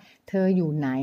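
เธออยู่ไหน drawn out slowly, word by word; slow, careful question. Shown as a demonstration. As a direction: spell out เธออยู่ไหน slowly for the learner. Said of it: "ถ้าเกิดว่าถามว่า". (พูดว่า เธออยู่ไหน ช้าๆ ชัดๆ)

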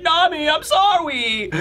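high, slow mock-pitiful wail; pleading whine. Beaten-up Luffy apologizes from the cage, pitiful whine. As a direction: whine a babyish, drawn-out apology. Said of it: "he's all beaten up in the cage".

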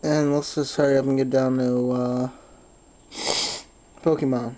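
talking through a blocked nose; stuffed up from allergies; stuffy nose. Real, not acted. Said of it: "Sorry if I sound a little stuffy here".

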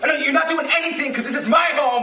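indignant. Acted. Homeowner stopping friends who take over his home, indignant.

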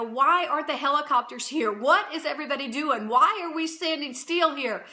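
pleading questions, rising in urgency; mildly frantic retold demand; retold urgent questioning. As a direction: re-enact demanding help, hitting each question word. Upset, demands help for the man.

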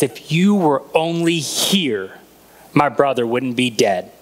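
slow, low, grieving words to Jesus; tearful plea. Acted. Martha, crying to Jesus, slow and mournful. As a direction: let her grief pull the words down slowly.

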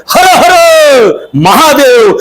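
a rising chant of hara hara mahadeva; war cry. Acted. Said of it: "अशी गर्जना करत". (मावळ्यांची उंच गर्जना)

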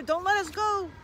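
high, loud father frog plea; anxious pleading. A narrator's reading. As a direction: plead loudly not to be dropped. Father fears falling.

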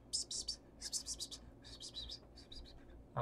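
hushed repeated psst sounds; psst whisper. Retold or imitated. Mimicking a secret message in the game, whispered psst. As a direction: hiss psst softly over and over.

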